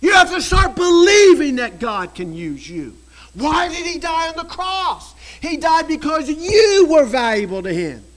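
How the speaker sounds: loud, near tears; impassioned preaching. Real, not acted. Preacher to congregation, loud tearful plea. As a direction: plead from the heart.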